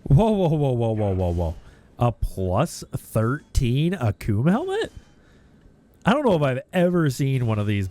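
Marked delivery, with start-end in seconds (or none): 0.0-1.5 surprised whoa. Real, not acted. Rare drop appears mid-grind.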